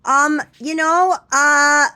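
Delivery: high, loud drawn-out filler; mock nonchalant voice; casual waxer. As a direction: mimic someone unbothered. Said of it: "They're just like".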